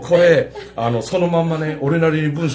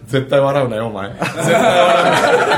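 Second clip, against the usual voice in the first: stern warning slowly, leaking laughter; holding back a laugh while scolding; trying not to laugh; 2 semitones lower, slower than usual. Retold or imitated. (笑いをこらえながら)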